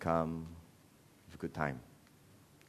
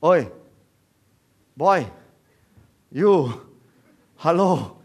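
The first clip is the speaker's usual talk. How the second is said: short loud calls, slightly raised pitch; hailing without names; 3 semitones higher, 7 dB louder, slower than usual. Acted. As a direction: call out curtly to someone nameless. Mocks calling without names.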